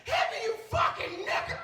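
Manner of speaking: high, loud mock female scream; woman's frenzied demand. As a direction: scream it as the lover losing control. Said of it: "She's like".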